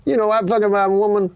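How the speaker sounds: retelling a stand-up bit in his voice; slowing on the punchline, imitating the comic; comic on stage. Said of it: "He goes".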